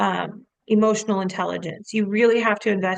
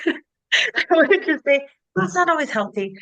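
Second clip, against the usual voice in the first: higher voice broken up with laughter; laughing; 6 semitones higher, 3 dB louder than usual. Real, not acted. Coach admits crying along isn't healthy, laughing. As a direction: say it through a laugh.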